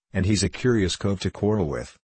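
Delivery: usual speaking voice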